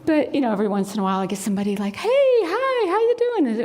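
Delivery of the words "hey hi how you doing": high, sing-out friendly hello; cheery greeting. Retold or imitated. Passer-by greeting a runner on the path, cheery. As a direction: imitate a chirpy passer-by.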